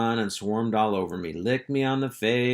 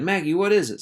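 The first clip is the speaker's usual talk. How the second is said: high, louder worried call; alarmed; 10 semitones higher, 6 dB louder, faster than usual. Acted. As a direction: rush in alarmed. Henry rushes to fainting sister.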